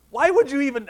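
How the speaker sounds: high, loud offended protest; indignant. Retold or imitated. Kid's indignant thoughts acted out.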